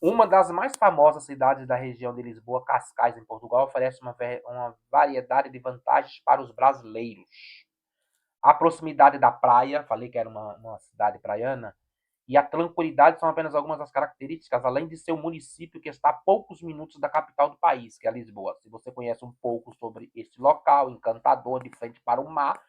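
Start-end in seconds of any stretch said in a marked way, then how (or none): 0.0-9.8 louder, projected informational read; reading an article aloud. Real, not acted. Commentator reading out what Cascais is, projected article read. 12.3-22.6 louder, projected informational read; reading an article aloud. Real, not acted. Commentator reading out what Cascais is, projected article read.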